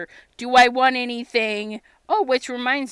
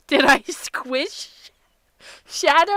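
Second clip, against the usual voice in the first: worried; 5 semitones higher, 6 dB louder, slower than usual. Retold or imitated. Fears she crushed the cat.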